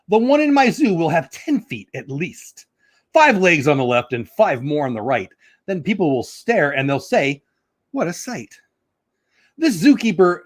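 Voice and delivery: sing-song Seuss reading, drawn out in places; storybook reading. Acted. Reading Dr. Seuss aloud to viewers, bouncy storybook voice. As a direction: read it like a picture book for kids.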